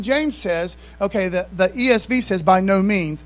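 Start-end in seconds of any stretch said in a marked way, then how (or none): 2.4-3.2 loud, falling "By no means"; emphatic. Retold or imitated. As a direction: stress it like an exclamation mark. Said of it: "exclamation mark".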